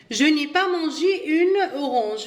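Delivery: very slow, each French word laid out clearly; slow model reading. Shown as a demonstration. Teacher reads the example sentence to pupils, slowly. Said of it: "إذن".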